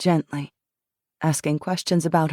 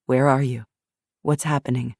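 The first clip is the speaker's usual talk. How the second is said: lower, steady guiding voice; calm questioner; 4 semitones lower than usual. Acted. Jackson guides Shiloh through the memory, low calm prompting. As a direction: gently prompt her to go on.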